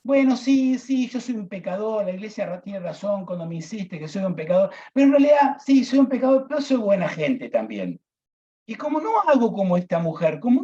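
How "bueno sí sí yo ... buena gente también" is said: mock self-satisfied penitent.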